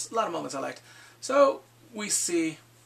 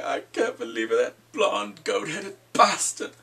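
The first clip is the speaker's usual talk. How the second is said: aggrieved Tormund rant; 5 dB louder than usual. Retold or imitated. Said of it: "he's in his feelings".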